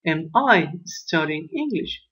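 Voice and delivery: slow, clear English question; slow model question. Shown as a demonstration. Teacher reading the question form to learners, slowly. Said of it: "La pregunta de esta oración es".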